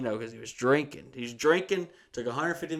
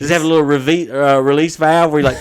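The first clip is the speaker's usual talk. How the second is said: loud, higher eager question; excited; 3 semitones higher, 15 dB louder than usual. Real, not acted. Asking his friend about the pump, loud and excited. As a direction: ask it wide-eyed.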